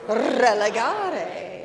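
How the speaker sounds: put-on leading the kids in Religare with rolled R's. Shown as a demonstration. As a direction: roll the R in Religare, slow. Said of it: "Can you say that?".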